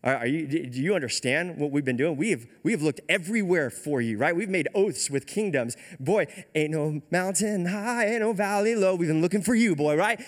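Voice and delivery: imitated incredulous protest, building in pitch; low-key freak-out. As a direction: act out a mild, exasperated panic. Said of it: "has a low-key freak-out moment".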